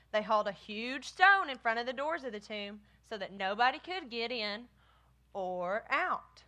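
animated, deliberate storybook reading; story reading to children. A narrator's reading. Teacher reading about the guarded tomb, deliberate storybook voice. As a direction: read it out with deliberate weight on each phrase.

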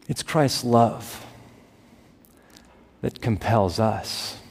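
slow, each word weighed; slow emphasis. Real, not acted. Preacher slowly lands the sermon's central line to the congregation. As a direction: lay the phrase down deliberately. Slowed key phrase.

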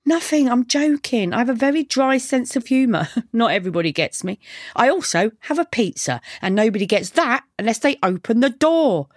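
deadpan backchat in a light female character voice; lightly played mouthy delivery girl; lightly voiced cheeky girl. Girl's dialogue in narrated story.

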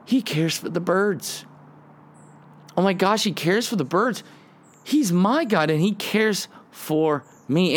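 high, wondering joy at the birds; amazed delight. Retold or imitated. Preacher voicing David amazed at God's care, high and joyful. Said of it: "He goes".

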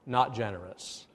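careful, deadpan tact; mock-delicate bluntness. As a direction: put it nicely, dropping your pitch. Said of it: "How can I say this nicely?".

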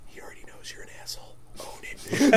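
hushed, voiceless egging-on; devilish whisper. Retold or imitated. Devil on the shoulder to the vendor, whispering. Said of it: "the devil just whispers in my ear".

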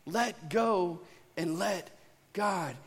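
slow it right down, savouring each word; slow, deliberate. Shown as a demonstration. Pastor slowly savouring the saying for the congregation. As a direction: let go and let God, each word drawn out slowly. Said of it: "I like how it goes".

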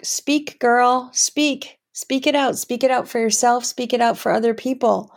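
heart's pep talk. Retold or imitated. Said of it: "the heart, um, is saying kinda like".

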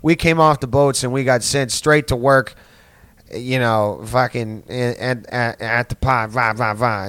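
mocking Boston accent, breaking into babble; hammed-up Boston Irish guy, accent dissolving into nonsense; stupid Boston accent. Comic mocking Boston guys on coming off the boats, stupid Boston accent. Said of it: "in fucking stupid accent".

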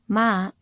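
"ma" rising, Mandarin second tone. Shown as a demonstration. Podcaster demonstrating hemp in Mandarin, "ma" in rising tone. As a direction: let "ma" climb in pitch. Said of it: "a rising tone".

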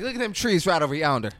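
hammed-up country Southern voice; Southern accent. Podcaster mocking the actress's tree line, exaggerated Southern accent. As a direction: imitate a Southern trailer park girl. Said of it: "an insane Southern accent".

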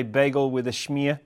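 playful mimicry of a New York accent; imitated New York accent. Guest showing the host how he talks, imitated New York accent. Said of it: "You would say".

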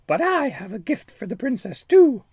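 high, menacing witch voice; shrill-free high cackling-witch menace; wicked fairy. Acted. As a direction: sneer it like a spiteful fairy.

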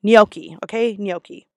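gnocchi as NYOH-kee, silent g; correct pronunciation. Shown as a demonstration. Server teaching how gnocchi is said, correct pronunciation. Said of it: "that mispronounce this word".

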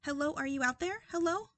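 calling out into the distance; echoing hello into the void; calling from far away. Pretend. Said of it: "How'd you like that intro".

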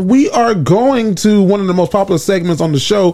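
slow, announcer-style host intro. Acted. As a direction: introduce the segment like a radio host.

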